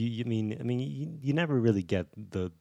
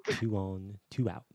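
Morgan Freeman calling baseball. Retold or imitated. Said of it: "Imagine Morgan Freeman calling a baseball game".

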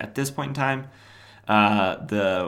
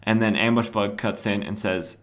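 usual speaking voice

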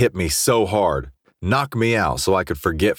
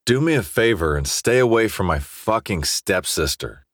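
put-on drunk, slurring the words; thick-tongued drunk speech; slurred; 3 semitones higher than usual. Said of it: "my words slurred".

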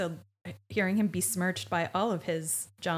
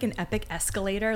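ordinary delivery

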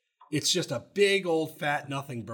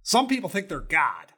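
a bit higher, louder mock-preachy coach; Jimbo impression; 3 semitones higher, 4 dB louder than usual. Host reading Jimbo's favorite quote to Paige, hammed-up impression. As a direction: ham up the righteous coach. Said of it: "this is my favorite quote".

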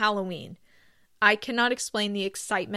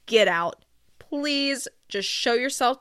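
playful get out; 3 semitones higher, 4 dB louder, slower than usual. Real, not acted. Telling Halloween haters to leave.

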